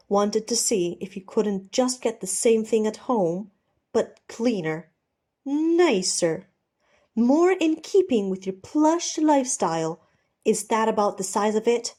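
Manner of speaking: mock him with bitter scorn; bitter mockery. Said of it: "Ed chuckles bitterly".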